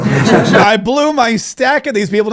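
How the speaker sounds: slow, laughing repeat of the quote. Retold or imitated. Host repeats the clip, laughing.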